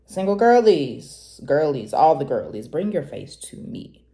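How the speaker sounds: put-on hollering for all the girlies; a hint of a playful shout-out; calling out. Calling out to single women.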